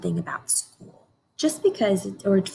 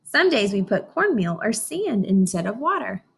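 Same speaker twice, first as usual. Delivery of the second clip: put-on reading to children. Teacher reads picture book aloud.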